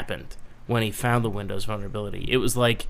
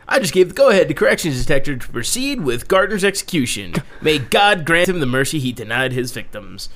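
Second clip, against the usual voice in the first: newscaster voice; 3 semitones higher, 5 dB louder than usual. Retold or imitated. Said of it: "I like your newscaster voice".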